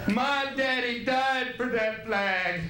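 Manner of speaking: slow, drawn-out mock patriot; mock patriot heckler. Heckler bragging his daddy died for the flag, slow and drawn out. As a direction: drag it out like a proud heckler. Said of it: "People are going".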